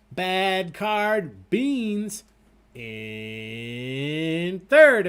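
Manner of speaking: lively, stretched game-show standings read; quiz host announcing. Acted. Host reads the standings to the trivia players, announcing.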